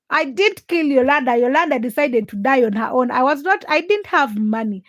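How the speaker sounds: real, spirited self-defence; defensive protest. Real, not acted. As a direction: push back firmly at an unfair accusation. Rebuts accusation of killing her chicken.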